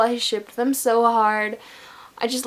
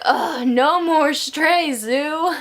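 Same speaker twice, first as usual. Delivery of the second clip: mock annoyed groan; 5 semitones higher, much slower than usual. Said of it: "and they're like".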